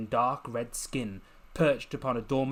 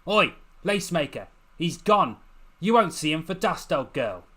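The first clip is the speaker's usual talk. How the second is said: loud jeering call across the rooftops, pitched higher; taunting call; 4 semitones higher, 7 dB louder than usual. Acted. Urchin jeering loudly at Lucy across the rooftops. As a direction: holler the taunt over the gap.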